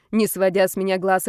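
usual speaking voice

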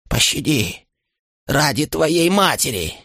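kneeling traitor begging the swordsman; desperate plea. A narrator's reading. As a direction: plead for your life on your knees. Traitor kneels, begs for mercy.

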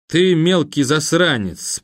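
put-on slow, slurring drunk; a hint of a drunk thug; drunken voice. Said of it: "пьяным голосом обратился к Даниле вампир".

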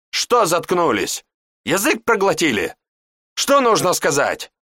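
high, loud contemptuous scolding; scolding warlock. A narrator's reading. Warlock berating his apprentices for their silence, high scolding. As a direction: demand an answer, high and sharp.

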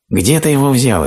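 high, astonished question; amazed. A narrator's reading. Hedgehog asking the hare about the frog, amazed and high. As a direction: gasp it out in wonder. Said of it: "изумился ёжик".

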